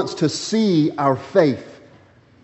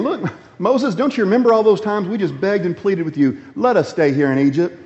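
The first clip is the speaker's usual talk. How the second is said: whiny complaining Israelites; 4 semitones higher than usual. Retold or imitated. Preacher voices grumbling Israelites.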